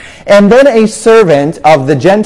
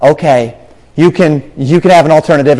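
mildly gracious, lower-pitched assent; gracious God; 2 semitones lower than usual. Retold or imitated. God granting Ezekiel's request, mildly gracious. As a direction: grant it kindly, with small pauses. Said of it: "God graciously said".

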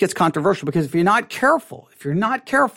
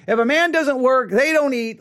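mock dismissive Christian; 3 semitones higher than usual. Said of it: "they have this mentality".

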